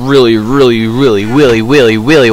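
"really" repeated, sliding into "willy"; playful speech impediment. Pretend. Gamer gushing about wanting to play a mod, playful R-to-W "really". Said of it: "I don't got a speech impediment".

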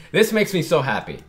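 "makes" lifted high and loud with real joy; excited joy. Real, not acted. Fan overjoyed at Robin's tears of joy, excited. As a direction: burst out happy.

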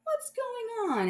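slow high puzzled dad; woken-up father; sleepy dad. Acted.

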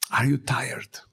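whispered, leaning in close to the listeners; a hushed, intimate question; soft whisper. Real, not acted. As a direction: breathe the question in a hush. Preacher asks the congregation softly.

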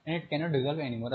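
very slow, word-by-word reading aloud; slow textbook reading. Shown as a demonstration. Teacher reading the textbook definition to the class, slow and deliberate. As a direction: read the definition slowly so students can follow.

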